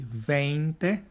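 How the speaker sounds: veinte said slowly and clearly as VAYN-teh; slow model of veinte for the class; teacher's model word. Shown as a demonstration. Teacher models veinte for students to repeat, slowly. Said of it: "Say it with me".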